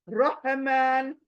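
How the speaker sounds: रहमान slow, heavy rounded ra; heavy Arabic ra. Shown as a demonstration. Teacher repeating the correct Arabic form. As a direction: draw out रहमान full-mouthed. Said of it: "फिर उसको मोटा पढ़ना है".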